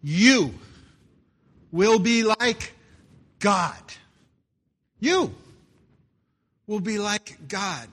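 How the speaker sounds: "You will be like God" slow, loud, each word set apart; stressing the lie. Shown as a demonstration. Preacher driving home the serpent's lie, slow and loud. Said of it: "The lie".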